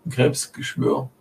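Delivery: spooky whisper. Pretend. Teasing reply about star signs.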